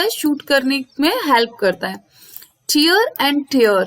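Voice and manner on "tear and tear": "Tear" first like teer, then "tear" like tair; slow contrast of the two "tear" sounds; two pronunciations of tear. Shown as a demonstration. Teacher contrasting the two "tear" sounds for students, slowly. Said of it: "यहाँ भी pronunciation sound different है".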